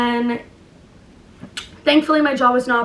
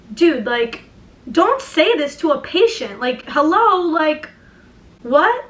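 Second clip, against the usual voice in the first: incredulous; 4 semitones higher, slower than usual. Retold or imitated. Incredulous at doctor's pity.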